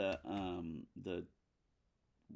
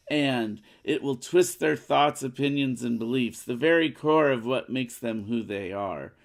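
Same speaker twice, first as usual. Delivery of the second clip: telenovela villain; 5 dB louder than usual. Acted. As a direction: reveal the evil plan with relish. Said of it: "She just sounded like a telenovela villain".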